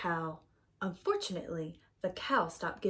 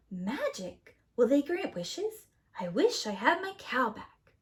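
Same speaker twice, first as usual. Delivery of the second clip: hopeful Jack; 3 semitones higher than usual. Acted. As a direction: get your hopes up. Jack voiced in story.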